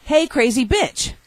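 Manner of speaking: high, slow pull-string doll; talking doll voice. Retold or imitated. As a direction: say it like a talking toy. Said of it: "it says".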